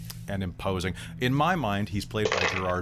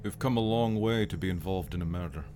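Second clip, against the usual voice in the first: Scottish brogue; 5 dB quieter than usual. Acted. Scottish character speaks on, far.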